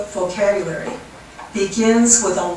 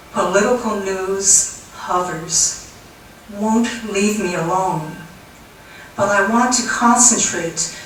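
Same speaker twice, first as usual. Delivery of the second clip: measured poetry reading with weighted pauses; poem recitation. Acted. Poet reads a cloud poem to an audience, measured recitation. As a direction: recite line by line, letting each image land.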